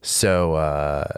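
rough, croaky bronchitis voice; hoarse voice. Real, not acted. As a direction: speak through a sick, hoarse throat. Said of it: "my voice is crap because I got bronchitis".

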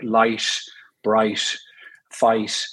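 "light, bright, fight" with a hissing, sibilant T; Irish sibilant T. Shown as a demonstration. Irish actor demonstrates the sibilant T in "light, bright, fight". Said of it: "sibilant T".

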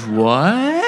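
very high, mock stunned squeal; hammed-up shriek of disbelief. Puppeteer hears who the kid's dad is, high stunned squeal. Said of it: "he is stunned".

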